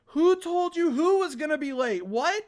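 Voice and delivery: high-pitched incredulous outburst; indignant disbelief. Real, not acted. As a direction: question it in rising disbelief. Indignant outburst at muddled writing.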